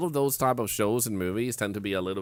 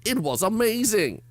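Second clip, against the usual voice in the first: mock excited child; 5 semitones higher, 4 dB louder than usual. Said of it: "And I'm like".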